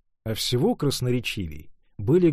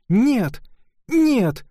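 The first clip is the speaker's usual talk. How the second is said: high ringing cry of no, much louder; exclaimed no; 12 semitones higher, 5 dB louder than usual. A narrator's reading. Ruth refusing her mother, crying out loud. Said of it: "воскликнула она".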